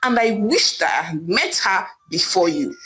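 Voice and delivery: mildly heated husband, steady pace; angry outburst. Acted. Husband turning on his wife, mild anger. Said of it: "Ame screamed angrily at his wife".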